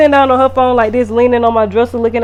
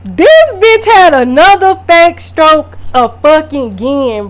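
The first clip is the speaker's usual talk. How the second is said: disbelieving outburst; 4 semitones higher, 6 dB louder, slower than usual. Real, not acted. Recounting the second fake stroke.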